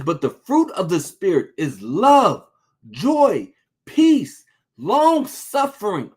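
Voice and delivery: emotional scripture, voice breaking; choked-up reading. Real, not acted. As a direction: read it as if about to cry.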